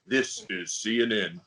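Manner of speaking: measured network announcer voice; James Earl Jones. Acted. Host quoting the famous CNN voiceover, announcer impression. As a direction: intone it gravely like a station ident. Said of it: "James Earl Jones did the voiceover".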